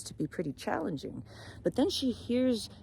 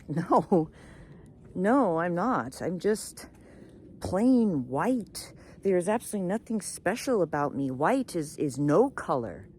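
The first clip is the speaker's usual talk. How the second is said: unhappy complaint; 2 semitones higher, 4 dB louder than usual. Acted. Swan tells raven it is not happy, complaining. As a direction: grumble with a louder, stretched-out stress.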